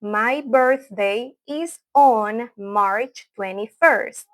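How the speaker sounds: very slow, word-by-word language demo; slow model pronunciation. Shown as a demonstration. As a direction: draw it out so learners can repeat. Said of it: "voy a hablar lento".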